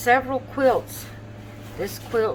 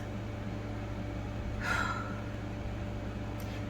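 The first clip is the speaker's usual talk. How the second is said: yawn; 14 dB quieter than usual. Real, not acted. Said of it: "every few words you have to yawn".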